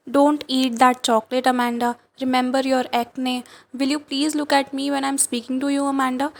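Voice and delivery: slow, measured poem reading; poem recitation. Acted. Teacher reading the mother's nagging to class, slow recitation. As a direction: read each line slowly, pausing on Amanda.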